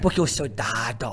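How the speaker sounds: lightly imitating father's Dado catchphrase; dad as Dado. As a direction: drawl it like dad's stubborn Dado. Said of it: "o Dado dizia".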